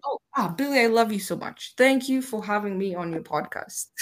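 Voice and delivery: hammed-up adoring guest; gushing fan. Mock gushing at host.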